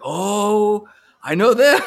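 high, loud mock squeal of recognition; delighted recognition. Viewers spotting familiar actors in upcoming episodes, delighted recognition. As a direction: exclaim it like an excited viewer, drawn-out oh.

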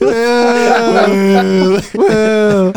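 loud whoop pushed up high; high woo. Real, not acted. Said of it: "didn't go up the octave".

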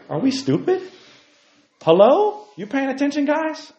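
high, loud wake-up call. Real, not acted. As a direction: snap the audience to attention. Calling out to the audience.

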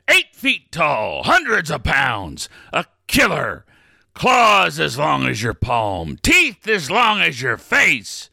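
slow, menacing list of threats; slow theatrical villain menace. Acted. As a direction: savour every threat slowly. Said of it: "contain my temper here".

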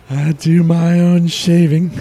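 put-on slow, loud drawling old-timer voice; old prospector. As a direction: play a dazed old-timer. Tripping boss in trance.

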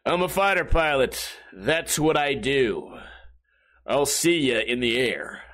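lightly hammed-up, slow fighter pilot; mock dramatic. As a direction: play the bad movie hero, drawing out each line. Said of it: "everything is just some stupid dramatic thing".

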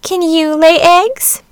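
high, slow, haughty hen voice. Acted. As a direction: look down on the duckling. Hen questions the duckling.

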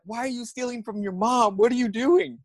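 high-pitched, incredulous mock yell; retold yelling back. Victim yells back at thief, high mock yell. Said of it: "I'm yelling back at him".

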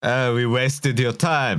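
slow, mock French accent. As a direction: say it like a Frenchman speaking English. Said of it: "Why did I do a French accent".

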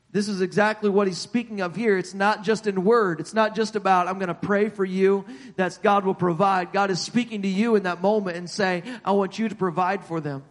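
preacher making an urgent point; earnest preaching. Real, not acted. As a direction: press the point home to a congregation. Preaching with rising emphasis.

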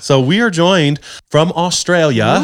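lightly put-on, slow Australian accent; a clumsy try at sounding Australian; hammed-up fake Australian accent, slow; bad Australian accent. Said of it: "that was a really bad accent".

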